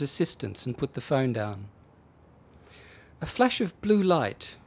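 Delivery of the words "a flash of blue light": policeman recapping. Acted. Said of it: "he recapped".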